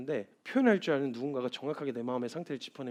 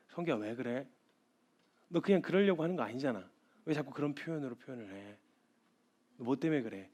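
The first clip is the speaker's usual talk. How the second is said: gentle Lord; 7 dB quieter than usual. Retold or imitated. The Lord gently questioning Seonggyu.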